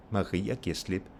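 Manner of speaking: "Maria" and "slip" both stressed, "giver" light. Shown as a demonstration. Teacher contrasting name with pronoun, stress on "Maria" and "slip". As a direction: put weight on "Maria" and on "slip". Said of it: "Now you have stress on Maria".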